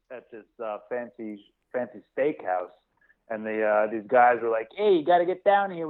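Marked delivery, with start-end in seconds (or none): 4.8-5.9 put-on Canadian accent. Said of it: "stereotypical Canadian accent".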